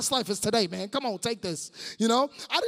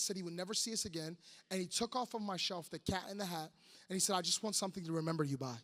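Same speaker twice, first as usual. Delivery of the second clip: put-on soft, lowered storytelling of an old hurt; quiet confiding; 3 semitones lower, 8 dB quieter than usual. Mentor confiding his father's leaving, quiet and grave. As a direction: bring it right down, hushed and low.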